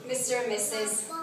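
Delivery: heartfelt wedding speech, read aloud; wedding toast. Acted. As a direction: give the bridesmaid's toast. Bridesmaid reads wedding speech.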